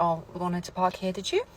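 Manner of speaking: pointed question jumping up at the end; passive aggressive. Shown as a demonstration. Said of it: "Passive aggressive".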